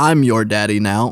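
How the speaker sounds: western drawl. Trying out voices for the viewers, a John Wayne impression. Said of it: "Now you sound like John Wayne".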